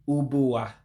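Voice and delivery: "ubua" with a plain English B for the GB; English-style B. Shown as a demonstration. English-speaking learner teaching Igbo GB word, pronounced with a plain B. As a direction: say "ubua" carefully, English B in the middle. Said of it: "that's why you're hearing me say".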